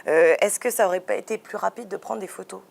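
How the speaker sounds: playful teasing question with a laugh in it. Real, not acted. Host teasing the artist about using photos, laughing. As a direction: needle her gently, laughing as you ask. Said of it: "mais je te taquine".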